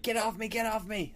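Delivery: high-pitched plea, not full volume; mock panicked scream. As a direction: play at frantically fighting it off. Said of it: "I'm screaming into my".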